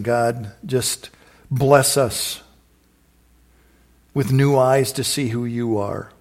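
earnest prayer, slowing on the blessing; closing prayer. Real, not acted. Pastor prays a blessing over the congregation, earnest prayer. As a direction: bless them, pressing each word to God.

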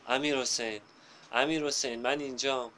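a mother calling her son over the crowd; shouting a name. Acted. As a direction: call him loudly, searching for him. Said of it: "داد زد".

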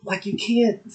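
talking around a piece of candy; mouth full. Real, not acted. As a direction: mumble through a mouthful of candy. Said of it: "Got this candy in my mouth".

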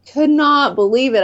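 retold disbelief, pitched high; incredulous retelling. Retelling her disbelief at the warrant.

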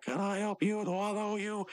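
high-pitched acted female reply; woman's voice. Margaret failing to recognize Mordecai, high-pitched woman's voice. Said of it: "And she's like".

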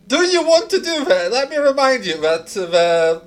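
high, loud laughing question; amused, through laughter. Real, not acted. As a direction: laugh your way through the reminder, loudly. Game master laughing at player's plan.

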